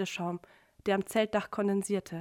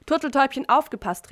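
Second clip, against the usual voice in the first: higher, louder teasing call to the couple; 4 semitones higher, 5 dB louder than usual. A narrator's reading. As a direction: call it out, mocking the lovebirds. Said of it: "rief Patrick". (Patrick ruft neckend den beiden zu, laut und höher)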